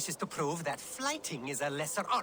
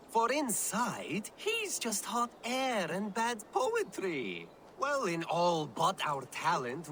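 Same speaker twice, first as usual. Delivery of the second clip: theatrical insult-poem recital; showy flyting verse; declaimed verse. Acted. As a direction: declaim the rhyme with sweeping pitch swings.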